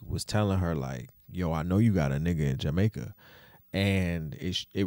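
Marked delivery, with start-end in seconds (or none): 1.3-3.1 quick attempt at a Jamaican accent, lightly done. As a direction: quote the husband in a mock Jamaican accent. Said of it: "was that a good Jamaican accent".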